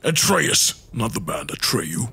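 Kratos voice. Acted. Holds Kratos voice.

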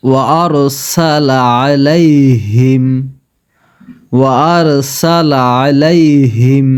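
আলাইহিম with ain from the throat; clear ain. Shown as a demonstration. Teacher showing the ain sound, recited twice. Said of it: "আইনের উচ্চারণ আইনের মতো রাখতে হবে".

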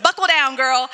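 a stern order from above; firm command. Retold or imitated. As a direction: bark it like a coach. Holy Spirit commanding her.

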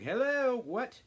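very high, loud, indignant hello, what; mock daughters' shock. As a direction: imitate the stunned daughters. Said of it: "the daughters are like".

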